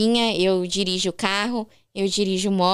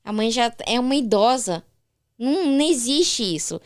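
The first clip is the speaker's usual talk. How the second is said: incredulous mother; 3 semitones higher than usual. Retold or imitated. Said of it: "Ela falou".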